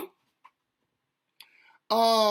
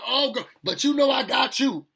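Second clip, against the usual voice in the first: put-on sweet-talking baby mama; 6 semitones higher, 4 dB louder than usual. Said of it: "it's like".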